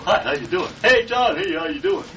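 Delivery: high, bright, overly friendly hello; cheery greeting. Pretend. Pretending to greet John warmly, high and cheery. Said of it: "you go".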